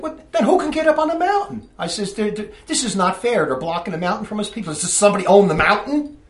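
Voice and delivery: retelling being fenced off the mountain, indignant; indignant outburst. Retold or imitated. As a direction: replay your outrage at being blocked. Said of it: "And then I got angry".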